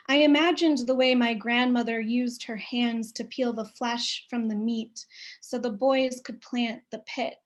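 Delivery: measured, unhurried poem reading with long pauses; reading her own poem to an audience; poetry reading. Acted. Reads her poem aloud.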